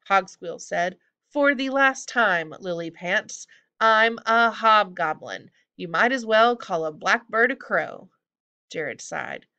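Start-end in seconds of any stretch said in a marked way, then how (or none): 1.3-8.1 high, loud, indignant correction; exasperated hobgoblin. Acted.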